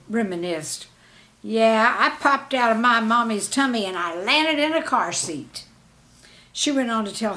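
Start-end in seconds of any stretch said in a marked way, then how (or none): 1.4-5.6 higher and much louder, blurted out; proudly announcing her birth story; eager child quote. Retold or imitated. Girl telling the class about being born, eagerly.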